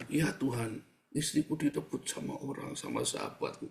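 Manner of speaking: understated mock-tearful prayer; half-hearted fake sob, voice dropping out; fake crying. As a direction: softly pretend to weep to God. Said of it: "Karena pura-pura nangis".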